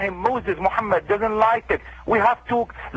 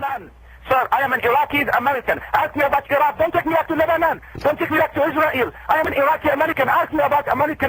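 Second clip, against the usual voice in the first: higher, fast, insistent pushback; heated protest; 5 semitones higher, faster than usual. Real, not acted. Imam to the host pressing on Hezbollah, heated fast protest. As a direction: rattle it off, pitched up, refusing the question.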